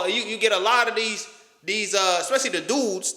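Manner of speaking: usual speaking voice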